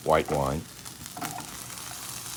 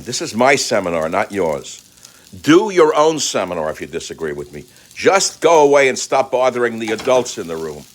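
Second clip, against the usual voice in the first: loud, high, furious telling-off; angry rant; 5 semitones higher, 4 dB louder than usual. Real, not acted. Host snapping at viewers who disagree, angry and loud. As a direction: shout the hecklers out of the room. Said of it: "I'm angry right now".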